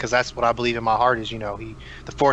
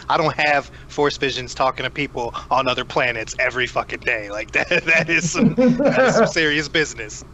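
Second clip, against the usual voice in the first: excited and laughing; fired up, grinning through it; hyped up; 3 semitones higher than usual. Real, not acted. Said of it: "I'm fired up right now".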